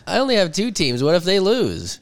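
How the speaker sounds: high-pitched pretend worry; mock panic. Host justifying another fantasy team, mock panic. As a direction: fret like it's a crisis.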